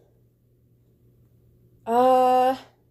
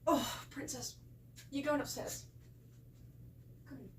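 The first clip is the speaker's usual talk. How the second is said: dog voice; 2 semitones higher, 18 dB quieter than usual. Real, not acted. Talking to her Shih Tzu, soft cooing pet voice. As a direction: coo at the little Shih Tzu, much softer. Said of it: "that's my dog voice".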